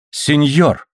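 high, piercing outcry; shrill cry. A narrator's reading. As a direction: cry out at the insult. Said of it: "пронзительно вскрикнула она". (пронзительный высокий вскрик)

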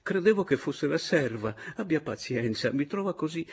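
put-on high-pitched, apologetic old man; flustered old man. Old man caught half-dressed by a visitor, embarrassed.

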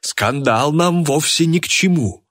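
high, slow, anxious appeal; frightened pleading. A narrator's reading. Organiser fears journalists will hear, pleading in fright. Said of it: "испуганно воскликнул он".

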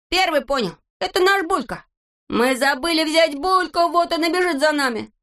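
high, eager bragging; excited Neznaika. A narrator's reading. Neznaika boasting to the brothers, high excitement. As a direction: rush out the discovery.

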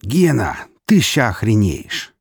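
thrilled to spill the news; excited announcement. A narrator's reading. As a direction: burst in with amazing news. Colleague bursts in with news.

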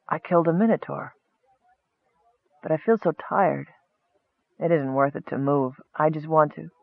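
drained thoughts drifting away; inner thought. A narrator's reading. Dying goblin thinking to himself, soft and tired. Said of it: "he thought".

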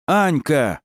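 high yell into the radio; alarmed shout into a radio. A narrator's reading. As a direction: yell her name in alarm. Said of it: "завопил он в рацию".

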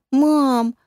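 высоко и громко, девочка зовёт в испуге; испуганно позови маму; испуганный детский зов. A narrator's reading. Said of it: "В её голосе отчётливо слышался испуг". (испуганная дочка зовёт маму)

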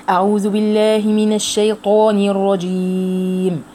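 slow, drawn-out tajweed chanting; Quran recitation. Acted. Teacher reciting the verse for her students, slow measured chanting. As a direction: recite each phrase slowly with long pauses.

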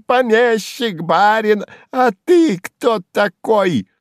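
high loud mocking jeer; spiteful jester, jeering. A narrator's reading. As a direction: goad the old man to fury. Сувенир's mockery reaches its peak.

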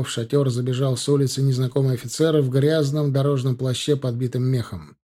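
usual speaking voice

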